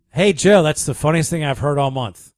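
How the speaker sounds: excited listener. Retold or imitated. Reading a listener text aloud.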